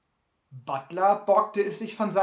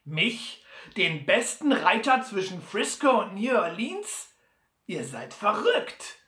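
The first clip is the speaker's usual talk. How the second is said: Butler empört; 3 semitones higher, 4 dB louder than usual. Acted.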